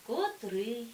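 котрИй, stress on the last syllable и; наголос на останньому складі: котрИй; stress demo. Shown as a demonstration. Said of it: "Їх потрібно тільки запам'ятати". (наголос на И в слові котрий)

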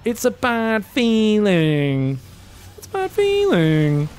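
very slow, stretched-out vowels; drawn-out mock lament. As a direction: draw it out like a teasing refrain. Drawn-out lament repeated over losing.

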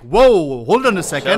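loud impressed whoa; surprised. Retold or imitated. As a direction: act amazed at the sight. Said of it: "where it's like".

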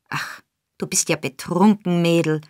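understated scorn; old fence sneering at the girl, lightly; contemptuous. Acted. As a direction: brush her off with mild contempt. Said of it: "sagte der Jude verächtlich".

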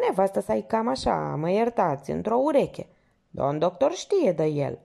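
a hint of the nosy old porter spilling gossip; gossipy porter. Porter confiding backstage gossip to the lieutenant, chatty.

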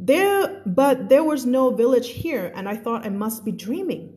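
slow, careful read-aloud of a novel; teacher reading a story to a class. A narrator's reading. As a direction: read the passage slowly for learners. Reads The Little Prince aloud.

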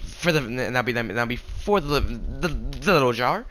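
stammering over the words; stuck repeating little words; stuttering. Real, not acted. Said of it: "sorry for my stuttering".

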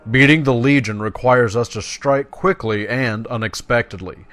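formal, emphatic briefing from a druid elder; dramatic game dialogue reading; quest-giver read-aloud. Acted. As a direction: lay out the mission like a quest giver. Reads quest text aloud.

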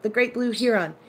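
"heron" with HEE first and a full -ron; HEE-ron pronunciation. Shown as a demonstration. Putting it to the viewers, "heron" said HEE-ron. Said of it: "like we say it".

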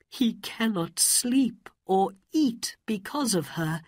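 hushed secret whisper; confiding whisper. Acted. Mother confiding her son's lovesickness, whispered.

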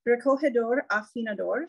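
Spanish words in an American accent; American accent on recogedor afinador. Real, not acted. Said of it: "I'm so sorry for my Spanish pronunciation".

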